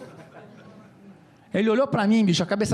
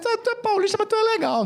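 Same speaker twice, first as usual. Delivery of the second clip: much higher, squeaky cabbie voice; amused cabbie; 13 semitones higher, faster than usual. Retold or imitated. Laughing cabbie voiced in story.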